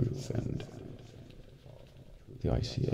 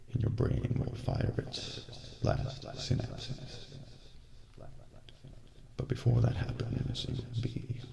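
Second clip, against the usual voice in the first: slow fading menace; 3 semitones higher, 6 dB quieter than usual. Acted. Describing poison's slow effect.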